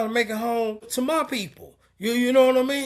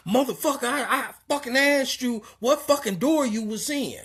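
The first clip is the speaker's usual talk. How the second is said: angry retold snap; 5 semitones higher than usual. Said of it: "started snapping off on me".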